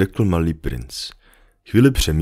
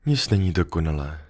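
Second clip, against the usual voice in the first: sighing; 5 dB quieter than usual. Acted. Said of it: "povzdechla si liška".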